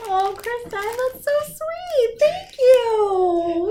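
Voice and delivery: high, crying thanks; tearful. Real, not acted. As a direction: thank her through tears. Still tearful over gift.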